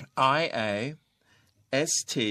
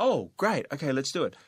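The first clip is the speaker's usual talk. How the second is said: higher-pitched, eager and upbeat; enthusiastic; 4 semitones higher, much slower than usual. Acted. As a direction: act out being keen to get started. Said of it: "That is enthusiastic". (เสียงสูงขึ้น กระตือรือร้น พร้อมลุย)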